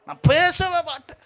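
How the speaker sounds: high, stretched mock refusal; hammed-up obstinate cry; stubborn refusal. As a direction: imitate someone refusing to make peace. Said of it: "வைராக்கியமா இருப்பாங்க".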